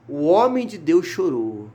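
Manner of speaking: slowed right down for weight; slow emphatic repeat. Real, not acted. Preacher repeating the verse to the congregation, slow and emphatic. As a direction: dwell slowly on each word.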